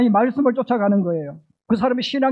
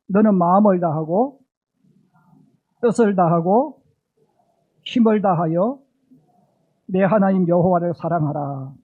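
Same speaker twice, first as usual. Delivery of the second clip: call and response; 3 semitones lower, 4 dB louder than usual. Shown as a demonstration. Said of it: "우리 한번 따라해 주세요".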